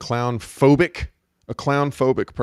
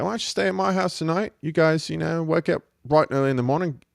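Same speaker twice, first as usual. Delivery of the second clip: imitated friendly Kiwi accent, a bit higher; New Zealand accent; 4 semitones higher than usual. Driver inviting hitchhikers to stay the night, in a New Zealand accent. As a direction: play the hospitable Kiwi driver, accent lightly put on. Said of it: "He's like".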